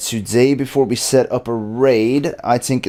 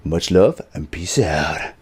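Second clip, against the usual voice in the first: slow catchphrase; 5 semitones lower, slower than usual. Shown as a demonstration. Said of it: "you have to do it".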